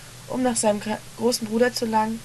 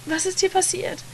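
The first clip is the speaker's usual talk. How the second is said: put-on terrified child; 10 semitones higher, 3 dB quieter than usual. A narrator's reading. Terrified child questions brother.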